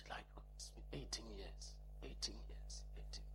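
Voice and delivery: hushed, marveling whisper; awed whisper. Real, not acted. Preacher whispering to congregation about her wait. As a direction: breathe the years out in wonder.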